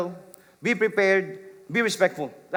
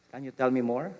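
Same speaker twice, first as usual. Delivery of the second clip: gentle invite; faster than usual. Shown as a demonstration. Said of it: "I'm glad you felt safe".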